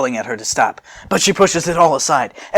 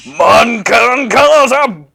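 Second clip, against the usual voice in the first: slow, loud, drawn-out battle cry; attack shout; 10 semitones higher, 9 dB louder, much slower than usual. Acted. Sissel firing his attack at Broly, a loud battle cry. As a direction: yell the move name.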